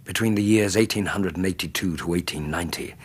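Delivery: measured storytelling narration building atmosphere; story narration. A narrator's reading. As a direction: narrate it like a Victorian memoir read by the fire.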